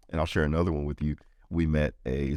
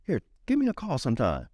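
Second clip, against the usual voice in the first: calling after him; 14 semitones higher than usual. Retold or imitated. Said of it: "I'm like".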